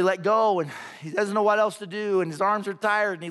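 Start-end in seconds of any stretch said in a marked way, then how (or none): 0.0-0.6 firm, measured command from above. Acted. Voice answering a hanging man's third prayer, firm. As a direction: say it more firmly, without raising pitch. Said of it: "here's the voice more firmly".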